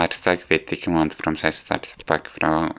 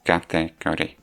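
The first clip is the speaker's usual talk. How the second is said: stuttering. Real, not acted. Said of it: "how much I'm stuttering".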